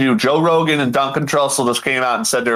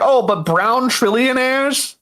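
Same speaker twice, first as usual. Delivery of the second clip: Bill Burr; 8 semitones higher, slower than usual. Retold or imitated. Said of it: "But then he's like".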